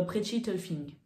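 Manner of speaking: English accent. Shown as a demonstration. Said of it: "j'ai un bel accent anglais".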